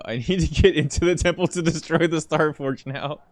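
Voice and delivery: loud, high menacing villain. Pretend. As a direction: boom it out like an evil overlord. Reads game line in villain voice.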